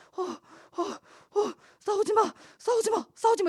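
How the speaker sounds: high, breathless, gasping, panicked pleading tone.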